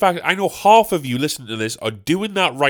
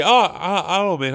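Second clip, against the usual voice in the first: higher, stammered greeting; mock surprised hello; 4 semitones higher than usual. Man meeting someone unseen for a while, mock surprise. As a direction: act caught out by an acquaintance.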